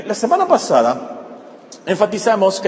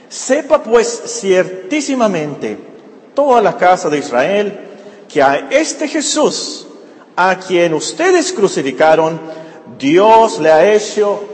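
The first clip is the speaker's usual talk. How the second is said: emphatic scripture reading; 2 semitones lower, 3 dB louder than usual. Acted. Preacher reads Peter's Pentecost words to the congregation, emphatic proclamation. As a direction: read it out like Peter preaching, weighting each phrase.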